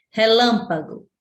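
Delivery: Relâmpago with a strong lâm; teacher's demo of Relâmpago, stressed on lâm; stress on antepenultimate syllable. Shown as a demonstration. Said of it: "lã é a tônica".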